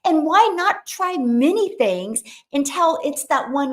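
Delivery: rally her with conviction; animated urging. Retold or imitated. Encouraging a young woman to try many things, animated. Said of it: "I go".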